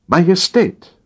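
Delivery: high-pitched call to the emperor; urgent call. A narrator's reading. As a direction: call out for His Majesty's attention. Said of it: "rief Marschall Murat".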